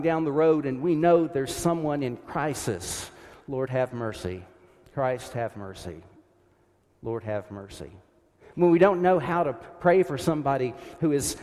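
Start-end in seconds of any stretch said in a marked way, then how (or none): 3.5-7.9 each plea lower and softer; fading prayer. Shown as a demonstration. Preacher showing the congregation how to pray the Kyrie, fading. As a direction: let the prayer sink to a hush.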